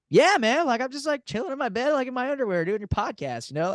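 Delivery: high laid-back dude voice imitating Danny. Telling a friend how Danny answered, mock chill dude.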